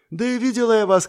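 put-on high teasing girl's voice; playful know-it-all girl. A narrator's reading. Lana teasing. (дразнящий девичий голос)

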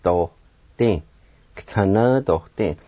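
"K'tanadohte" joined up, the G run into the T; slow, whole-word "K'tanadohte"; blended syllables. Shown as a demonstration. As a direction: blend the opening of K'tanadohte into a quick "kt". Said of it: "start the G sound with the T like this".

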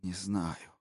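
soft broken murmur; whispered. Acted. Husband answering his wife in a broken hush. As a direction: barely get the words out. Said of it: "прошептал тот".

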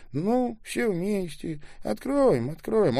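high voice rising to a loud wail; plead, building into a drawn-out cry; frantic pleading. A narrator's reading. Frantic pleading before being struck. (высокая мольба, переходящая в вопль)

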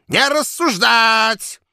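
put-on slow, high, loud old voice; quavering old man. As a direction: rattle it out like a tipsy old man. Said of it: "дребезжал".

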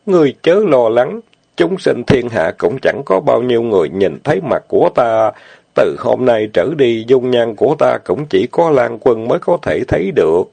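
lightly voiced fairy, sweet and gentle; sweetly smiling. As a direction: reassure him tenderly with a smile. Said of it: "ngọt ngào cười nói".

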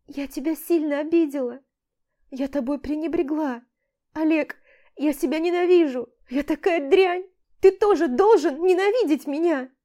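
высоко и громко, с надрывом; ненавидеть себя вслух сквозь слёзы; отчаяние. A narrator's reading. Самобичевание в истерике. (Аля в истерике кается перед Олегом)

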